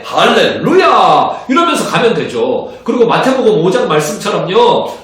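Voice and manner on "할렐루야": slow, drawn-out shouted hallelujah; stretched, ringing hallelujah; joyful hallelujah. Acted. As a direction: cry out praise like good news just landed. Acted joyful evangelist response.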